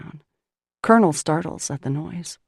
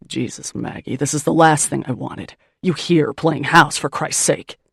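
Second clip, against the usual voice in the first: harsh lower man's bark, louder; worn-out man snapping at the woman in his kitchen, louder; 3 semitones lower, 4 dB louder than usual. Acted. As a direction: bark it at her in disgust. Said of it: "he barks".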